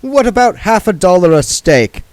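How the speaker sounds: oily card sharp talking down; Mister Frank's voice. Acted.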